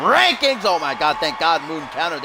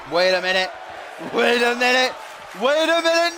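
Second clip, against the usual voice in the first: building excitement; 8 semitones higher than usual. Real, not acted. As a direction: build from alert to frantic. Repeats, rising each time.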